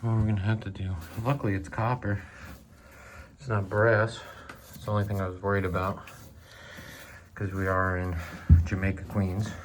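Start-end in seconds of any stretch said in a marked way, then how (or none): 1.2-9.5 speaking through a dust mask; words dulled by a mask; muffled by mask. Real, not acted. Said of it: "Sorry if I'm a little muffled".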